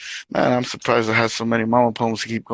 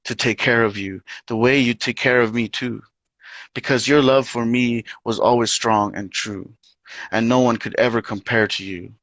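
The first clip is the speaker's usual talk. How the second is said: poetry reading. Acted. Reads own poem aloud.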